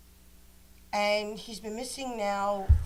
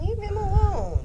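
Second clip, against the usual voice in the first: high mock voice; 10 dB louder than usual. Defending Tommy in high voice.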